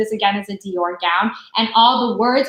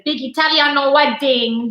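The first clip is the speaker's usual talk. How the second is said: put-on Italian accent; 3 semitones higher than usual. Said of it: "Do you like my Italian accent".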